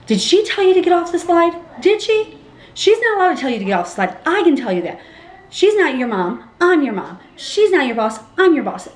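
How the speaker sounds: high, scolding mock yell; yelling mom. Mom scolding her son about the slide, mock yelling. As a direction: imitate a mother laying down the law. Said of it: "she's in there yelling".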